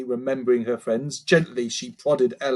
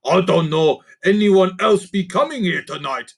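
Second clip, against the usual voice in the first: higher goblin voice, puzzled; curious creaker; 6 semitones higher, 5 dB louder than usual. Acted. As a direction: ask the others, genuinely lost. Gruff creature voice.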